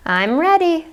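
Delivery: bright, smiling confidence. A narrator's reading. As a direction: say it with a smile. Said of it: "said Beatrice with a smile".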